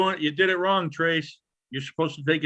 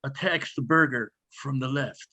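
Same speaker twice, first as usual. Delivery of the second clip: nature documentary. Pretend. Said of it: "let's just sit here and observe the Rosensteels in the wild".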